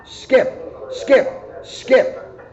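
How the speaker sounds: very high, breathy squirrel calls; squeaky skip calls. A narrator's reading. Squirrel calls back to Muggs in a high squeak. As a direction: call back over the shoulder, squeaky. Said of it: "calling behind him".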